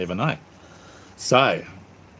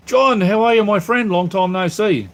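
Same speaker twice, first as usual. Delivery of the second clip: excited greeting; 9 semitones higher, 5 dB louder than usual. Real, not acted. Greeting a chat regular.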